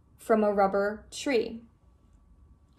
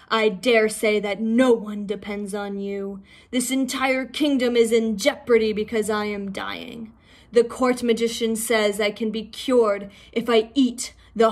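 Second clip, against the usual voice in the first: stern king. Acted. A hint of the Dragon King addressing the rabbit. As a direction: speak as a proud dying sea king.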